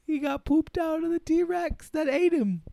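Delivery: high, giggling delivery; barely holding back laughter; giggly punchline. Real, not acted. Telling his co-host the silly T-Rex ending, giggling.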